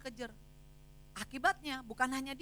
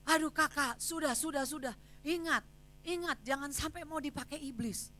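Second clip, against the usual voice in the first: a touch of an urgent elder, louder; grandfather calming; 5 semitones higher, 4 dB louder than usual. Retold or imitated. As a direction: hurry to calm her down. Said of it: "Terus dia bilang".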